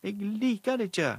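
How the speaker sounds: høyt, lyst og sint barnerop; sint rop. Acted. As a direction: tramp i gulvet og rop det ut. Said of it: "ropte hun". (sint jente roper til moren, høyt og lyst)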